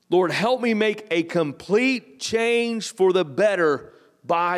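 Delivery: slow, deliberate prayer read aloud; measured, unhurried dictation pace. Shown as a demonstration. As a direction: read each phrase slowly for them to fill the blanks. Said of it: "I'll read it slow the first time".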